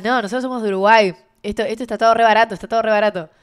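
citando entre risas, más fuerte. Retold or imitated. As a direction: imitar a los uruguayos burlones. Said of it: "Y dijeron". (uruguayos burlándose en voz alta)

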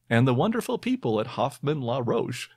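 lightly sarcastic praise; hint of sarcasm. Real, not acted. Host naming the drug's makers to quiz listeners, lightly sarcastic. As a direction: let a little irony colour the compliment. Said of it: "there's a hint of sarcasm in my voice".

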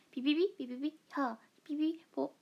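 a light mimic of a bandmate's catchphrase; Mirei impression. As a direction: chirp it like her. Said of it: "ミレイちゃんのモノマネこれしかできない。". (メンバーの口癖を軽く真似して)

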